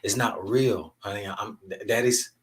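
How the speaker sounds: retold letting a little girl down easy; gentle dad talk. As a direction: haltingly break it to your child. Father gently confessing to young daughter.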